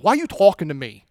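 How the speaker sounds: quick New Jersey back-talk; New Jersey accent. Acted. Samaritan woman talks back to Jesus, sassy New Jersey accent. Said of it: "like, this New Jersey accent".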